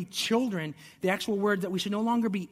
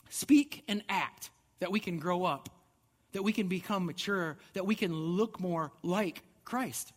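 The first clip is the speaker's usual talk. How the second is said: slow emphasis. Acted. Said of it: "preacher stresses the charge".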